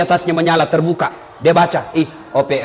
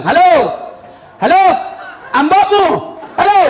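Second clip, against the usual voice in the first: villager yelling into a phone; 9 semitones higher than usual. Retold or imitated. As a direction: bellow down the line like a confused old man. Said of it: "langsung bilang".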